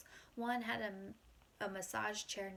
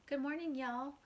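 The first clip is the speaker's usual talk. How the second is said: put-on old guy's country-accent greeting, pitched up; 6 semitones higher, 4 dB louder than usual. A narrator's reading. Old man in straw hat greeting egg sellers, country accent. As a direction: greet them with a country twang. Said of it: "He had a strong country accent".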